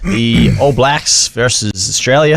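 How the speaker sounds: put-on American accent; slowly, in a casual mock-American accent. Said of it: "I don't know why I'm doing American accent".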